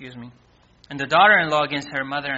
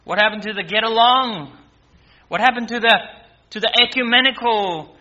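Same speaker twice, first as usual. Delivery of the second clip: higher, louder complaining objection; mock protest; 4 semitones higher, 4 dB louder than usual. Objector asking Jesus where getting along went, mock protest. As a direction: push back as a baffled objector.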